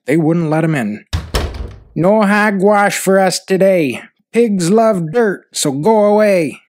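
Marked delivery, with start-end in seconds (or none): 1.9-6.6 raised, singsong defiant refusal; defiant pigs. Acted. Pigs send the farmer away from their pen, defiant. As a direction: refuse the bath in a higher pig character voice.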